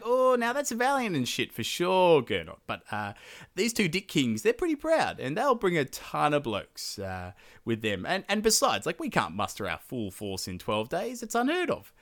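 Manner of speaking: lightly voiced worried adviser; Hagen voice. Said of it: "he's like".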